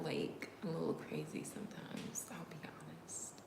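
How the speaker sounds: soft unvoiced whisper; whispered confession. Real, not acted. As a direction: confess it under your breath.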